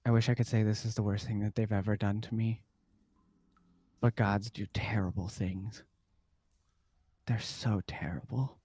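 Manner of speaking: fading to a hushed whisper; weary lament. Acted. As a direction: sink away into a murmur. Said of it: "Denier kinda looks at you and goes".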